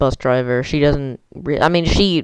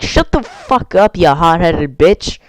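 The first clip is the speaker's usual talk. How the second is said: retold angry outburst. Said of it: "said stuff like".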